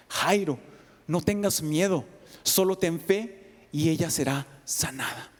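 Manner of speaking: plain steady comfort; Jesus repeating his promise firmly; firmer reassurance. Shown as a demonstration.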